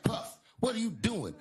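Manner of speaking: high-pitched, acted disbelief; shocked question. Comic walking in on a rapper, high shocked question. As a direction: pitch it way up, aghast.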